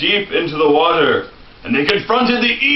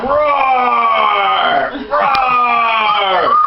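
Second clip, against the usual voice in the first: playful dragon roar; 4 semitones higher than usual. Pretend. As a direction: roar like a friendly dragon for the kids. Dragon roar in bedtime story.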